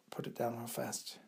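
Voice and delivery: usual speaking voice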